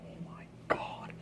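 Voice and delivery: whispered disbelief; barely voiced, slow oh my god. Real, not acted. Whispered aside.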